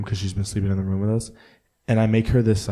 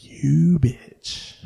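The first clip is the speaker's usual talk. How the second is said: breathy whispered mock insult to the dog; a mock-angry whisper at the sneaky dog; 7 semitones higher, 5 dB louder than usual. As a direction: hiss it at the dog under your breath. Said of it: "I'm like".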